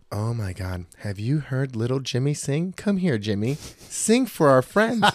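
mocking gushing parent, rising very high at the end. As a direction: ham up a proud parent showing off. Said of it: "I hate when people are like".

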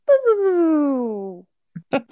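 drawn-out falling "boo"; imitated noise. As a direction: make a long, falling game-over noise. Imitated noise in game retelling.

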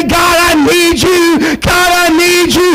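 a worshipper crying out for help; pleading cry. Pretend. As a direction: beg God slowly, word by word. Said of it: "begin to cry out and say".

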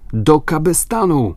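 high-pitched shouted order; calling out. A narrator's reading. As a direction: call the crew to their posts. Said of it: "zawołał John". (podniesiony okrzyk rozkazu)

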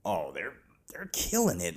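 hushed, conspiratorial whisper; whispered aside. Acted. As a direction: lean in and whisper the pun. Sly pun on a horror reboot.

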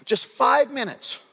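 mild mock parent pleading for five minutes; exasperated parent. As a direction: plead slowly with the restless kids. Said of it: "sometimes I'll just say to them".

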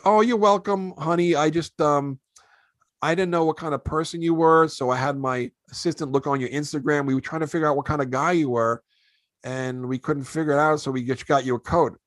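a lightly mimicked gushing woman; Leah Remini voice. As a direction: play the kind actress chatting.

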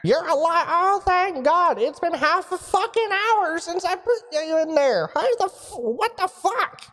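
high, booming wizard from afar; a surprised wizard calling into the device; booming mage voice. Acted. Mage voice continues.

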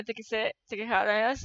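words pushed out through shut lips; talking with mouth closed. Shown as a demonstration. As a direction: speak without opening the mouth. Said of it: "Sem abrir a boca". (falando sem abrir a boca)

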